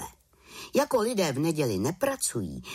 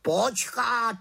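high, louder raven cutting in; raven interrupting; 11 semitones higher, 4 dB louder than usual. Acted. Raven interrupts the witch, high. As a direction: cut her off like a raven. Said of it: "skočil jí do řeči Havran".

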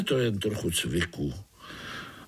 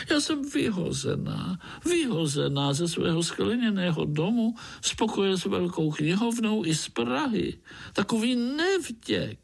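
high, fussy lament; high, wailing frog lady; 9 semitones higher than usual. Acted. Frog lady laments being thrown out, high and wailing. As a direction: wail over her eviction like a wronged lady frog. Rosnička laments her eviction.

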